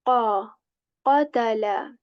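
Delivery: "Qa" from the back of the tongue against the soft palate, with force; strong qaf. Shown as a demonstration. Teacher models "qatala" with a strong back q. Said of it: "touches the soft palate with strength".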